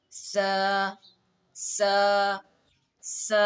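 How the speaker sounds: سا with tongue between teeth, lisped s. Shown as a demonstration. Teacher models سا for students, tongue between teeth. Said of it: "ان دونوں کے درمیان میں اگر زبان رکھیں گے".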